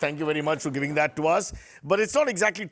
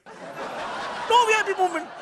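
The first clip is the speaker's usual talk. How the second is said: mock outrage; 13 semitones higher, slower than usual. Host repeating phrase, exaggerated, shouting.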